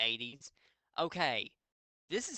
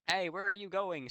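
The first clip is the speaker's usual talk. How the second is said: calling out; 6 semitones higher than usual. Acted. Satan calling to falling girl.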